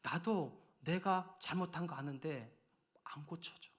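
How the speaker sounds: soft, slow, almost whispered plea; retold tearful confession. Husband confessing to his wife, in mild retold tears. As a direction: mildly voice the tears of a husband who can't change. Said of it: "제 아내한테 울면서 말했어요".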